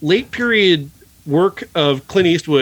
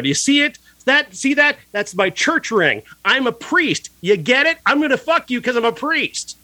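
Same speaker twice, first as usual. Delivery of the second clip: higher, teasing villain voice; hammed-up priest spelling it out; mock creepy priest; 8 semitones higher than usual. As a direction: sneer it like a smug movie priest who wants you to notice. Mocking the priest in film.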